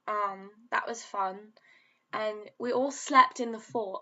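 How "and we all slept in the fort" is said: slipping into a put-on British accent. Vlogger drifts from the name joke into a British accent. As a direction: play at sounding British. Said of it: "just talking in a British accent now".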